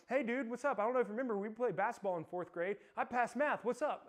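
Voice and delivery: high, loud bubbly phone greeting; bursting to share the news; calling an old classmate, breathlessly excited; over-excited caller. Retold or imitated.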